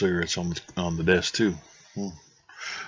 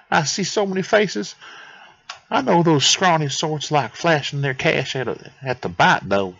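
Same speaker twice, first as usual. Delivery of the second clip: put-on higher would-be Italian accent; Anatoly; 5 semitones higher than usual. Anatoly answers Howie's questions, higher mock-Italian accent. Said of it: "that's gonna be the accent I give him".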